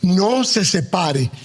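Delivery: No se separe, slow and stressed on no; underline this. Shown as a demonstration. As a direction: dwell on No se separe. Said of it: "Subráyelo".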